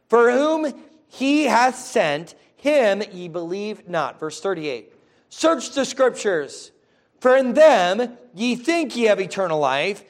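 solemn scripture reading. Acted. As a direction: proclaim each phrase with weight. Reads scripture aloud to congregation.

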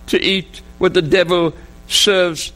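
anguished pleading to God, breaking into a cry; retold sobbing prayer. Father begging God to let him die, sobbing. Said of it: "he sobbed again".

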